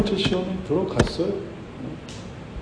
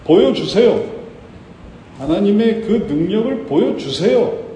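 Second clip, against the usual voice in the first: demanding; 5 semitones higher than usual. Acted. Imagined believer demands proof of God's power, demanding. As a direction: demand it insistently, voice raised. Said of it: "요구하는 사람이 아니었어요".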